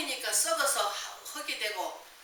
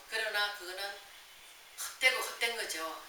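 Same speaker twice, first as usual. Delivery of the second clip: ordinary talk, nothing marked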